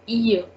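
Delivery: "ear" said as ee-yuh, no L; French "ille" sound. Shown as a demonstration. Teacher showing the E double L E sound, "ear" as ee-yuh. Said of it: "the sound that we are having is".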